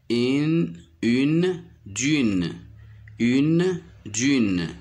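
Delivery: "une" high and held, "d'une" falling; teacher's emphatic, lengthened une... dune; word sounded out. Shown as a demonstration. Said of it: "je le frappe pour repérer le son".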